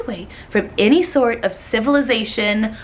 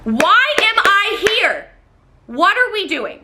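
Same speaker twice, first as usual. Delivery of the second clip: higher, slow whine; whiny complaint; 8 semitones higher, 3 dB louder than usual. Retold or imitated. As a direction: moan it slowly. Her moaning imitation of him.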